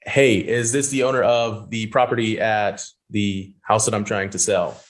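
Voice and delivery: slow, stiff reading off a paper; stilted, like reading a script word by word; robotic script reading. Retold or imitated. Mocking new cold callers, slow and robotic. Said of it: "You sound like a robot and it sounds like you're reading off a piece of paper".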